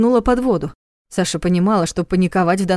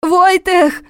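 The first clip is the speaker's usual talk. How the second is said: high, loud panicked scream; 11 semitones higher, 6 dB louder than usual. A narrator's reading. Trapped Sasha screams for Vojtech in terror. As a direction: scream his name in terror. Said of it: "закричала она".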